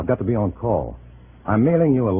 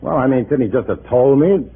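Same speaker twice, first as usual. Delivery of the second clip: indignant protest; 5 semitones higher, 6 dB louder than usual. Acted. Agent protests under pressure.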